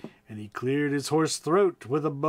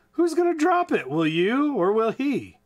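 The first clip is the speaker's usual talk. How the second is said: anxious shout; 6 semitones higher than usual. Acted. Boy fearing the bomb drop, high anxious shout. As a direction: cry out in panic. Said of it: "I shouted".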